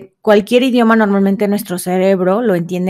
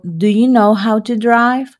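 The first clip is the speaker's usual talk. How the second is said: slow model question. Shown as a demonstration. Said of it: "Y un ejemplo".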